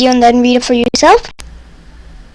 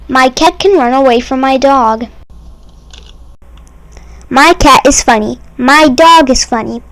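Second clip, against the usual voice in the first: ordinary delivery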